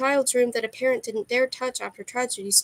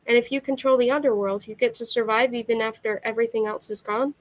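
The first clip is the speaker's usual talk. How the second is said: statement turned into a question at "gone". A narrator's reading. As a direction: let "gone" lift into a question. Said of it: "I said it as a question".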